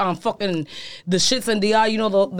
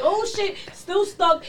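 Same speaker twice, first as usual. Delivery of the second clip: surprised; 6 semitones higher, 4 dB quieter, much slower than usual. Retold or imitated. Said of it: "and I'd be like".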